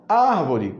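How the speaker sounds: "Árvore" with a strong opening "Ár"; "Árvore" stressed as ÁR-vo-re; stress on antepenultimate. Shown as a demonstration. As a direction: hit the first syllable of "Árvore". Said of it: "mesma coisa".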